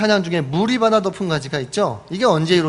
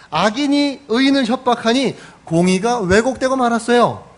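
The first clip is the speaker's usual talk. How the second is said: a mild voice of Habakkuk arguing with God; protesting prophet; 3 semitones higher than usual. Acted. Prophet Habakkuk protesting to God, mildly voiced complaint. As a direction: plead and complain upward, lightly acted. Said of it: "이렇게 따집니다".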